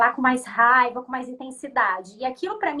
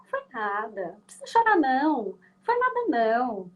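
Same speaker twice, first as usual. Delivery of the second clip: mais alto e mais agudo no "chorar", insistente; adulto minimizando o choro. Retold or imitated. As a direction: repete "Foi nada" para encerrar o choro. Adult repeats to the crying child. (adulto insistindo com a criança que não foi nada)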